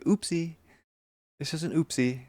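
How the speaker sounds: put-on high, babyish oopsie; cutesy oopsie voice. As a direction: say it like a playful little slip. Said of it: "That's like".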